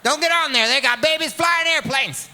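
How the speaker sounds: mock warning shout. Veteran warning about young pilot.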